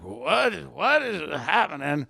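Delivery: slow, lightly voiced bewildered old man; a hint of a dazed elderly father; confused old father. Out-of-it father mid-signing, lightly imitated confusion. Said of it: "the father would be like".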